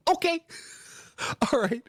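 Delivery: aunt agreeing. Retold or imitated. Aunt voiced in a story.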